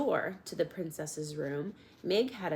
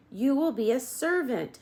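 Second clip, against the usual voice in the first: louder, higher soldier; shouted; 8 semitones higher, 6 dB louder than usual. A narrator's reading. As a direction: spell it out for the deaf girl. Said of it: "shouted the soldier".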